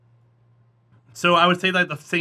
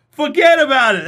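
loud, high, hammed-up Jersey accent; brash, raised-voice New Jersey accent, put on; 7 semitones higher, 11 dB louder than usual. Shown as a demonstration. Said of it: "That's my Jersey accent".

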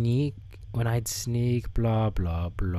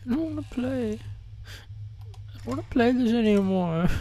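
whiny; 11 semitones higher, 4 dB quieter than usual. Real, not acted. Whining about game.

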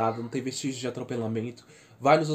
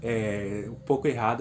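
shivering from cold, voice trembling. Real, not acted. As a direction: talk while shivering from cold. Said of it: "porque eu tô morrendo de frio".

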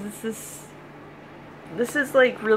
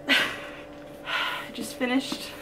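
drained; 2 semitones higher, 4 dB quieter, much slower than usual. Real, not acted. Just finished, emotional.

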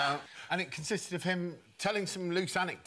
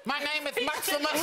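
Gladiator impression; 10 semitones higher than usual. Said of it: "one of the worst impressions".

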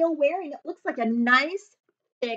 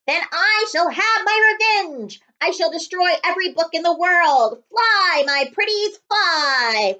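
high, loud, hammed-up villain gloating; evil villain; 6 semitones higher, 6 dB louder than usual. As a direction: cackle out the evil plan. Villain's evil revenge speech.

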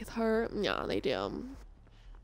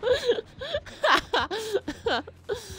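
breathless laugh, pitched up; high nervous laugh; 11 semitones higher, 4 dB quieter than usual. Real, not acted. Killer heading their way, nervous laugh. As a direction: laugh in panic.

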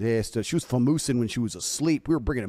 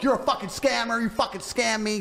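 mock angry man; 9 semitones higher than usual. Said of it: "he'd go like".

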